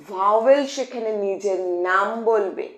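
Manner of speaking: slow, clear dictation pace. Shown as a demonstration. Teacher dictating a rule slowly to students. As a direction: spell it out slowly so they can write. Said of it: "slow dictation".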